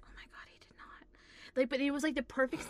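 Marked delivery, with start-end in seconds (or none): 0.0-1.1 hushed disbelieving whisper. Retold or imitated. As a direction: whisper it, stifling laughter. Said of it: "I was just like".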